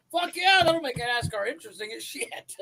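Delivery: high-pitched mock-enthusiastic approval; excited retold cheer. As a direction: crow it in delighted agreement. Retold reaction to a meme.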